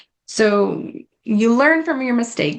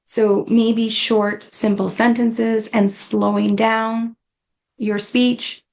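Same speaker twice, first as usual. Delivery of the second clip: slowly, word by word: "short, simple sentences"; slow demo speech; slower than usual. Shown as a demonstration. Teaching caregivers to slow down, slow measured demo. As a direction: show the pace you want. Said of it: "start slowing down our sentences".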